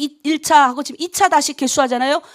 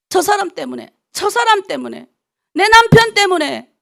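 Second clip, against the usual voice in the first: mock excuse-making; 6 semitones higher, 3 dB louder than usual. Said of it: "변명을 자꾸 하면 안 돼요".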